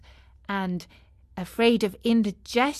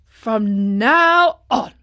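drawn-out, louder horrified vow; 7 dB louder, much slower than usual. A narrator's reading. Man hearing of fish eating a donkey, horrified. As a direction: stretch the words in mild horror. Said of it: "said the man, horrified".

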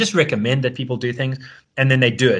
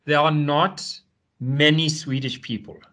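slow, lifted mock Swedish accent, hammed up; deliberately bad Swedish accent, drawn out and sing-song; terrible Swedish accent; 3 semitones higher, slower than usual. Imitating a Swedish economist on RT in a terrible Swedish accent. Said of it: "I'm gonna do a terrible accent".

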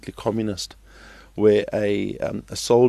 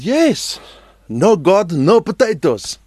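farmer's punchline; 8 semitones higher, 9 dB louder, slower than usual. Retold or imitated.

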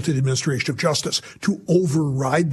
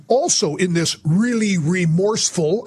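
sarcastic; 2 semitones higher than usual. Real, not acted. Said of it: "I say sarcastically".

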